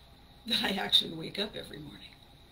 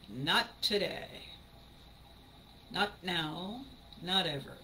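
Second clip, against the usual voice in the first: firm quiet resolve; 2 semitones lower, 5 dB quieter, slower than usual. Retold or imitated. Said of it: "You're saying".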